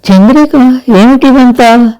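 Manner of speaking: stunned, asking what this all is; astonished question. A narrator's reading. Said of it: "విస్మయంగా అడిగింది".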